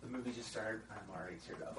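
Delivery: imitating wife's hushed aside; leaning-over whisper. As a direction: whisper it softly, as if in a cinema. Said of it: "my wife leaned over, she's like".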